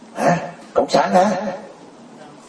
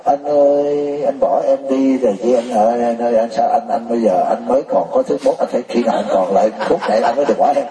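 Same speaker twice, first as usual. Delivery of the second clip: mock crying wife. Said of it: "Còn ở lại cái khóc".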